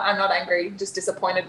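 a parent scolding gently; disappointed dad voice. Retold or imitated. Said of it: "Dad voice".

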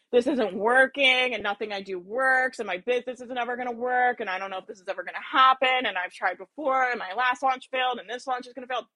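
a mild self-pitying moan; lightly voiced, defeated complaint; a hint of wallowing in failure; victim energy. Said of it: "That is victim energy".

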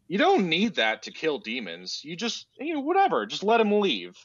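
high-pitched mock carelessness; mock dismissive. Sarcastically voices giving up on demon hunting.

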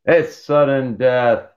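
slow, dramatic announcer call; mock sportscaster. Announcing overtime in hockey, mock play-by-play. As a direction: draw it out like a game commentator.

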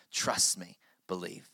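soft, low voice of comfort; gentle reassurance. Acted. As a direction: quietly reassure a doubting heart, low and tender. Jesus reassuring the doubting listener.

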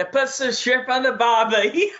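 put-on Australian accent that slips toward British; Australian accent attempt. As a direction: have a go at an Aussie accent, laughing. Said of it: "proper Australian accent from you".

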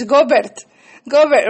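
"Gobert" said Spanish style, go-BERT with pure vowels; Spanish pronunciation. Shown as a demonstration. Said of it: "if I pronounce it in Spanish".

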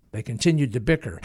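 usual speaking voice

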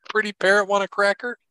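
high squawky parrot talk. Pretend. Co-host nicknamed Pretty Parrot.

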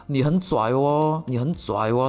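put-on slow Shenzhen kid Mandarin, Cantonese twang; Cantonese-accented Mandarin. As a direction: drawl it like a Cantonese-accented bully. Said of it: "他就用那种有点广东口音".

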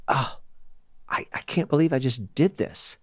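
soft, hushed self-reproach; understated, softly stunned remorse; stricken regret. Acted. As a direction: act out quiet, halting dismay. Voices Peter's horror at himself.

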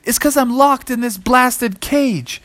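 a hint of indignant dinosaur; high-pitched, mildly exasperated complaint; lightly voiced complaining captive; grumbling T-Rex. Caged T-Rex grumbles to kids.

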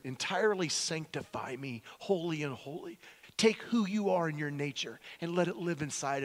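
earnest prayer, easing down to a hush; heartfelt prayer. Acted. Sinner asking Jesus for a clean heart, earnest prayer.

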